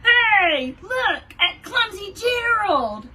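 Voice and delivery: loud, high mocking jeer; sneering. Lions mocking Gerald at the jungle dance, loud sneering jeer. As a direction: jeer at him like a playground bully. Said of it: "the animals all sneered".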